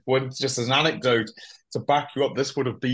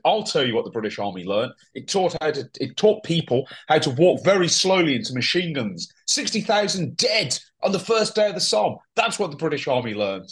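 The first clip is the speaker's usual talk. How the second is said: thick Scottish brogue; 4 semitones higher than usual. Retold or imitated. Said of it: "very angrily and in a thick Scottish brogue said".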